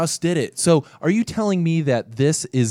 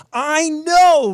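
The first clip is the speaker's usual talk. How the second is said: excited burst; 12 semitones higher, 6 dB louder than usual. Real, not acted. Laughing exclaim.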